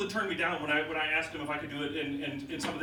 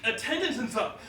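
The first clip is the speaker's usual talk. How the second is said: impassioned outburst; 7 semitones higher, 7 dB louder than usual. Real, not acted. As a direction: voice soaring high and loud. Passionate plea, voice rising loud.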